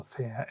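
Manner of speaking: "Thea" first stressed on THE, then on final A; stress contrast. Shown as a demonstration. Teacher contrasting view and goddess, stress shifting between the two "Thea"s. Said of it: "it's where you put the tone".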